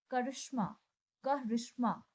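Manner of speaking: करिश्मा said with a clear k at the start; k sound shown. Shown as a demonstration. Teacher showing the k sound in करिश्मा to students. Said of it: "इसमें क की sound आती है".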